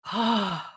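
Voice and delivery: long audible exhaled sigh. Real, not acted. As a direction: let out a big breathy sigh. Searching for words about secret project.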